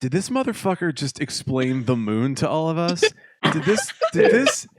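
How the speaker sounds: incredulous rant, loud stumbling restarts; retold fuming. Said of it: "fuming in the front seat".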